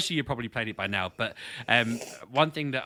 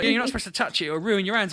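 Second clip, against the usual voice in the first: mock coworker; 10 semitones higher, 6 dB louder, faster than usual. Retold coworker's reply.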